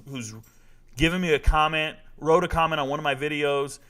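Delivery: ordinary talk, nothing marked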